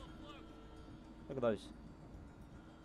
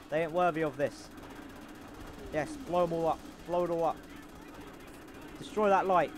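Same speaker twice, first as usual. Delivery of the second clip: gung-ho gunner role; 3 semitones higher than usual. Pretend. Plays gunner character.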